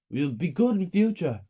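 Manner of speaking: loud, high pleading promise; crying out. A narrator's reading. Child promising mother to behave, crying out. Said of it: "me and my brother cried".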